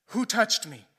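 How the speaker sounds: loud, sudden question to a crowd; calling out. Retold or imitated. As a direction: demand to know who did it. Jesus stops and calls out.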